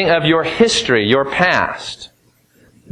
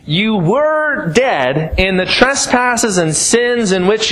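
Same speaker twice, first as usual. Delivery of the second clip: scripture reading; 4 semitones higher than usual. Acted. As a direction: read the verse out with weight. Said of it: "The emphasis changes in verse four".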